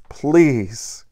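high, urgent "please". Acted. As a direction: beg him to stop, quickly. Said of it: "Celia said urgently".

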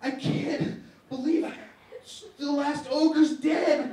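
slow, high, loud laughing lament; mourning the last ogre, laughing, slow; mock despair laughing. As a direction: wail it through laughter. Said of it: "and I'm like".

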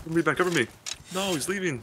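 cover me shout. Real, not acted. Urgent callout mid firefight.

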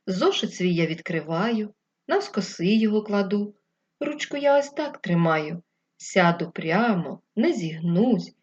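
put-on lightly chanted children's verse; rhyme recitation. Teacher reciting a desk rhyme to the class, lightly chanted. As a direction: recite the verse in a bouncy rhythm.

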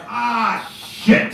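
a high ah then a whispered shit; spotting Jesus in heaven, whispered dismay; caught out. Pretend. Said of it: "I'd be like".

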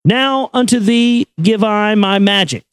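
ordinary delivery

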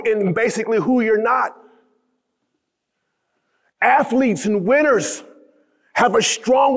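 rousing sermon delivery on winners; preaching. Acted. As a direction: preach it at full force to the crowd. Motivational speech climax.

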